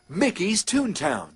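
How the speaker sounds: ordinary delivery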